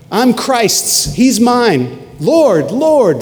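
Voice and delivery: high, loud fervent cry of Lord. Retold or imitated. Pastor voicing believers crying out to their Lord, loud and high. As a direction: cry it out to heaven. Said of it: "There are people who cry out".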